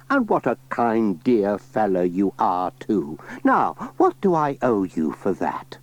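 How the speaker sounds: put-on a touch of a kind old lady; lightly voiced old granny. Granny Dryden thanking Pat, lightly voiced old lady.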